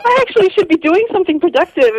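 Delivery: mock shock. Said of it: "and you're like".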